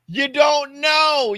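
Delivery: high, loud, slow insistence; emphatic shout. Real, not acted. A comic arguing to his podcast co-hosts, slow loud shout. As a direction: hammer it home, slowly and loudly. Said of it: "repeated emphatic point".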